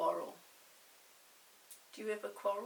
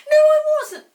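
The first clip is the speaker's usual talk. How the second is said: even higher, louder stubborn denial; 24 dB louder, faster than usual. Acted. Peter denies again to Molly, louder. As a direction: shout the denial back. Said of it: "said Peter".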